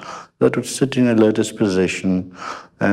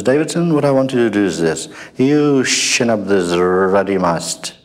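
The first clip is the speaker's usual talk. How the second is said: bossy admiral; 3 semitones higher than usual. Retold or imitated. Admiral barking orders.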